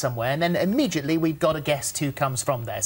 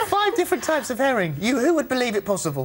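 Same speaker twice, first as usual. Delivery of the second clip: amazed; 6 semitones higher than usual. Real, not acted. Host marvels at her supper.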